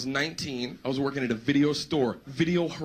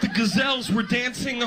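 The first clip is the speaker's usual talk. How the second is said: mock-distraught excuse; 6 semitones higher than usual. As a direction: sell an absurd excuse in hammed-up distress. Acting out an outlandish excuse.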